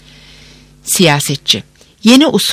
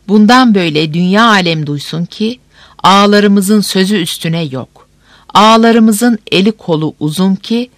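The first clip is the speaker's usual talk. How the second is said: town crier; 2 semitones higher than usual. Acted. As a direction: call it out to the whole square.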